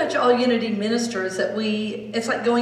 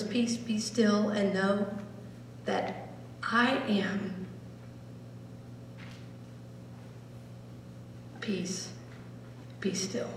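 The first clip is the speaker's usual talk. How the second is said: slow, softer, fading; slow fading meditation; meditative; 12 dB quieter, slower than usual. Shown as a demonstration. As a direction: drift into stillness. Meditation deepening.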